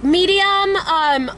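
put-on hesitant amateur British accent. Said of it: "Thinking British".

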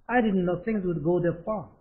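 very slow, every word clear; slow model reading. Shown as a demonstration. Teacher drilling the sentence slowly for the class. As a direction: lay it out slowly for learners. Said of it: "몰랐다 이 말이죠".

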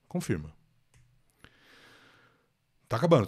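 usual speaking voice

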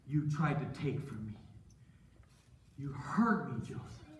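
subdued, wounded reproach; hurt. Acted. Potiphar tells Joseph he is betrayed, hurt. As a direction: let it sink, dropping away on the name. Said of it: "I could tell it really hurt him".

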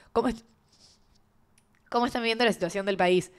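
voz congestionada, con mocos; nariz tapada. Real, not acted. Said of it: "estoy llena de mocos". (voz de resfriado)

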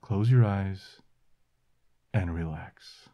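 calm, unhurried breathing cues; guided meditation. Acted. Leads the relaxation exercise.

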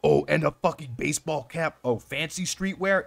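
loud, rising excitement over loot; excited. Real, not acted. Finds great loot in the game.

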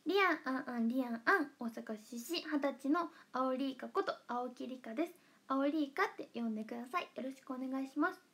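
a light take on a bandmate's self-introduction; Aoki Rika impression. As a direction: playfully mimic her intro. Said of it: "青木里香ちゃんのモノマネします。". (メンバーの自己紹介を軽く真似て)

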